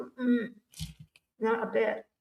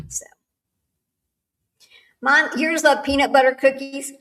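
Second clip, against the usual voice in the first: normal talking voice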